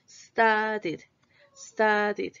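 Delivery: Studied in two beats, short I in -did. Shown as a demonstration. Teacher models spelling with I, Studied ending -did. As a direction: end Studied on a clear -did. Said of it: "Con I".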